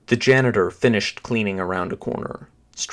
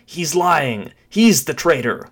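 higher, urgent plea; desperate accusation; 6 semitones higher, 4 dB louder than usual. Acted. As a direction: protest desperately as the wounded man. Wounded man accuses his pursuer.

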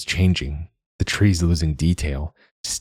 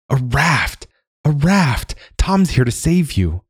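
calling out; 9 semitones higher, slower than usual. Retold or imitated. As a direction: shout it across the water. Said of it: "with Julia calling out".

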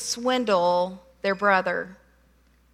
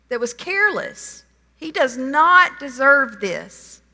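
mildly raised, exasperated pleading; a touch of indignant protest, building; frustrated brother; 3 semitones higher than usual. Retold or imitated. Older brother protesting to his dad, mildly frustrated. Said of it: "He's frustrated".

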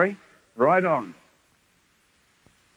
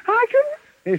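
high-pitched imitation of a shy girl; mock squeaky protest; 4 dB louder than usual. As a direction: voice jumps way up, small and timid. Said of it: "She said".

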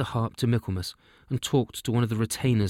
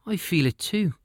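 wee elf king; 7 semitones higher than usual. Acted. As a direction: pipe up like a tiny elf king arriving.

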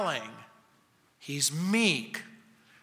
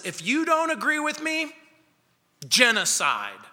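menacing threat; 5 semitones higher than usual. Retold or imitated. Voicing radical threat.

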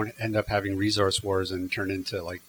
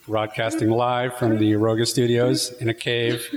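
cave echo. Shown as a demonstration. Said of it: "There's an echo".

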